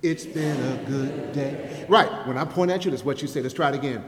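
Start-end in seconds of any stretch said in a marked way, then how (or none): 0.0-1.9 slow, drawn-out unison line; slow call and response with the congregation. Shown as a demonstration. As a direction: lead the crowd in, word by word. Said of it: "Can you say it with me?".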